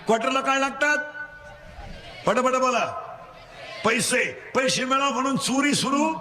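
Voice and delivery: call-and-response preaching. Real, not acted. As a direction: leave the end rising for them to finish. (पोरांकडून वदवून घेणारा चढा सूर)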